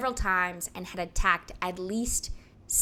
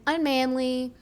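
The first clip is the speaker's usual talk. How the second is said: mock public scolding, higher at first, loud at the end; imagined indignant speech; 3 semitones higher, 4 dB louder than usual. Podcaster imagining how the Lord Mayor gave the speech, mock-indignant. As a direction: act out an outraged official, punching the last phrase. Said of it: "that's how I assumed he gave the speech".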